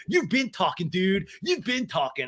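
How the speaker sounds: high, whining protest; Sandoval. Retold or imitated. Sandoval protesting in the argument, high mock complaint. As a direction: mimic an indignant dude complaining. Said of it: "And Sandoval's like".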